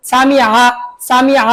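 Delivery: সামিআ with the ع squeezed from the throat; সামিআ, tight guttural ayn in the middle; throat-pressed ayn. Shown as a demonstration. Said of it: "গলা চাপ দিয়ে বলুন".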